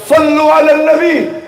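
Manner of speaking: high, drawn-out calling voice; acted shouted call. One person calling out to people quarrelling, high slow cry. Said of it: "satu orang teriak".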